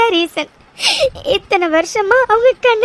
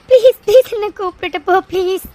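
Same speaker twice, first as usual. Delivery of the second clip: tearful begging. Acted. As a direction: beg desperately to be taken along. Begs to be taken to hospital.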